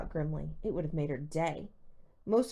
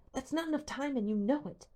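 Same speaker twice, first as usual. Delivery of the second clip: panicky; 8 semitones higher than usual. A narrator's reading. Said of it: "Hal sounded panicky".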